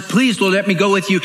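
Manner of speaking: freed man eagerly asking the Lord to take him; eager begging. Acted. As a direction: ask eagerly, lifting the voice. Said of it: "Now he says".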